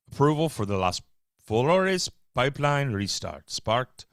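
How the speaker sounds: a slow, lightly put-on Hispanic accent on Las Flores; mock Hispanic accent. Reading headline to viewers, joking Alec Baldwin-style Hispanic accent. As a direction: lean lazily into a Hispanic accent, slowing down. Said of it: "I sound like Alec Baldwin trying to do a Hispanic accent".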